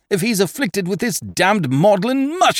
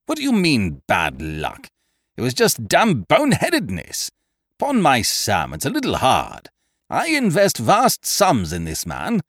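higher, indignant tirade; vigorous indignation; 7 semitones higher than usual. Acted. Eucridge ranting about his boxer's softness. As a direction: rant with wounded vigour. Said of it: "throwing off his lethargy with a vigour that spoke of mental anguish".

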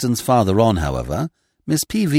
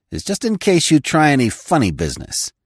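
gruff threat; 5 semitones higher than usual. Acted. Coutts threatens with revolver.

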